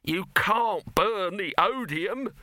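high, slow, cutting; snapped retort. A narrator's reading. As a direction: snap it back at him. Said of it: "snapped Dibbler".

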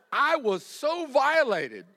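high, slow, laughing through it; laughing outrage. Real, not acted. Preacher telling the llama spit story, laughing and high. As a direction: laugh while hamming up the hurt. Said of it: "laugh heard".

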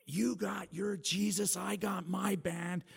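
high, slow defiant jab at her sister; teenage defiance toward the sister; defiant retort. Retold or imitated. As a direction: throw it back at her, mocking. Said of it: "And I was like".

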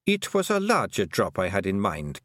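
a tiny Scottish clan mother, proud and fond; old Kelder voice. Acted.

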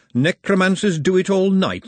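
the skeleton scoffs at the mug's slogan; mocking skeleton voice. A narrator's reading.

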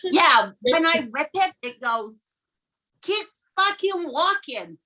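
put-on thick Long Island accent; New York wizard voice. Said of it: "that sounds pretty Long Island to me".

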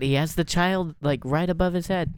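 agitated protest. Acted. Sniper argues back at handler.

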